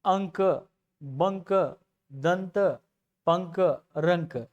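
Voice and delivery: अंक, बंक, दंत, पंक, रंक with the nasal ं held long and full; drawn-out anusvara. Shown as a demonstration. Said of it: "उच्चारण खींचकर".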